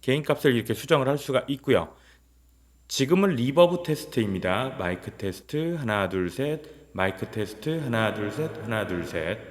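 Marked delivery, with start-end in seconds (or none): 2.9-4.8 reverb effect. Shown as a demonstration. 4.8-5.7 mic test with heavy reverb; echoing room sound; reverb effect. Shown as a demonstration. 5.7-9.4 counting with heavy reverb; echoing count; reverb effect. Shown as a demonstration.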